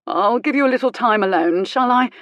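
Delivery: acted easy agreeableness; agreeable. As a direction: humour them agreeably. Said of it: "Hainsworth said agreeably".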